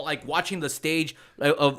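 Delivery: ordinary delivery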